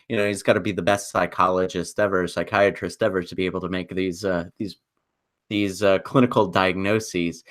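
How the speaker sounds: quick, dry sarcasm, understated; sarcastic. Real, not acted. Film podcaster mocking a character's instant diagnoses, sarcastic. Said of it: "I say that sarcastically".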